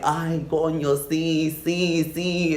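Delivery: high, hammed-up moans of pleasure; mock moaning. Retelling the sex to viewers, mock high moaning. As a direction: ham up the bedroom moans.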